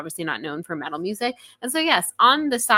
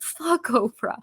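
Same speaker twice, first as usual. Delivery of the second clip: high, put-on mock rapper; joking back at her husband in a put-on voice; mock rapper line; 6 semitones higher, slower than usual. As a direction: throw it out like the song line. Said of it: "and I was like".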